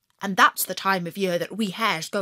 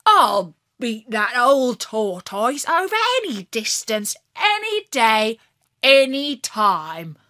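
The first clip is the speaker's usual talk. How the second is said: louder, cocky boast; a hare bragging, punching each phrase; boastful vow; 3 semitones higher, 6 dB louder than usual. Acted. Hare boasting to fox, louder and cocky. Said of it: "I said".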